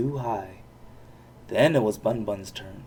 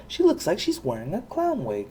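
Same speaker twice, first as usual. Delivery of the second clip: jealous sneer; 7 semitones higher than usual. A narrator's reading. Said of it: "snorted Bun Bun jealously".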